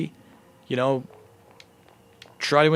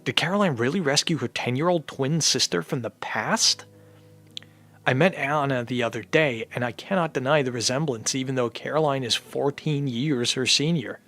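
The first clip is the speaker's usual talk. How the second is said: reading game text. Acted. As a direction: read the note aloud like a story narrator. Reading game diary text aloud.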